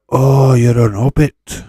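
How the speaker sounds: silly teasing voice. Pretend. Teasing a viewer about accents.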